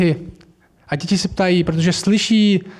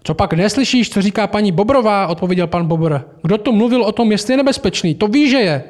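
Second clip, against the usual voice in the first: higher, insistent beaver; emphatic Mr Beaver; 3 semitones higher than usual. Acted. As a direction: drive home that he is dangerous. Beaver answers Lucy.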